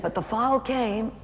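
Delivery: slow, falling sadness; dropping sadly. Retold or imitated. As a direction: let the happiness drain out slowly. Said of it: "and her face dropped".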